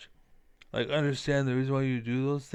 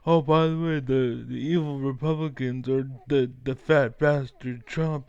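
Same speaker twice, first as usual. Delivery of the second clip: mocking news pundit; 3 dB louder than usual. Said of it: "you wanna play Fox News".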